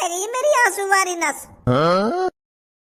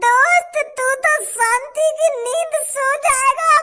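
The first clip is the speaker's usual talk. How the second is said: fake crying; 3 semitones higher than usual. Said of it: "नाटक कर रहा तू मेरे सामने रोने का".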